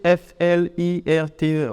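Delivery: slow letter-by-letter spelling. Acted. Listener working out the strange word, slow spelling. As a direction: work it out letter by letter.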